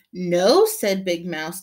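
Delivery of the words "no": louder, flat refusal; firm no. Acted. Big mouse refusing little mouse, firm no. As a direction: shut it down firmly.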